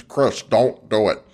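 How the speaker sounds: slow, put-on American accent; mock an Aussie doing American, drawn out; stretched-out fake American accent; impersonated American accent. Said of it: "I like when they impersonate Americans".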